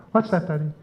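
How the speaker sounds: lightly mimicked small daughter with a Dublin accent; a hint of a Dublin child asking Daddy; little girl's Dublin accent. Three-year-old daughter pestering Daddy at breakfast, light Dublin accent. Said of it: "she's a real Dublin accent".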